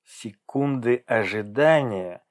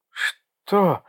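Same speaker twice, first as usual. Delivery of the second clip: anxious; 8 semitones higher than usual. Acted. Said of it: "с тревогой выдавила она".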